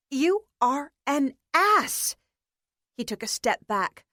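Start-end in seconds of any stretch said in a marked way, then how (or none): 0.1-2.2 angry outburst. Acted. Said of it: "Her stare deepened to a scowl".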